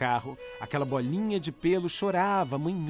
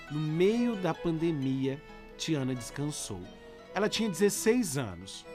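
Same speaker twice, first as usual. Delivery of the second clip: letter reading. Acted. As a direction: read the letter gently over music. Reads listener's letter over music.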